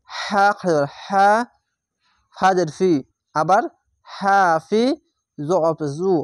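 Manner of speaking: recitation drill. Shown as a demonstration. Teacher chanting the reading method for students. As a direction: drill each syllable like a Quran class. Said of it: "আর এই পড়ার নিয়ম হচ্ছে".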